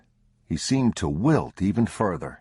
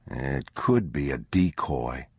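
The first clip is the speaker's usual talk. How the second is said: lower, slow, wary father; father warns son, low and wary; 4 semitones lower than usual. Acted. Narrator voices the father.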